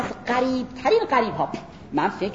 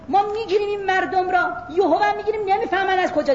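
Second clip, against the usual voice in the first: God's stern voice; 9 semitones higher, faster than usual. Pretend. Voicing God's warning.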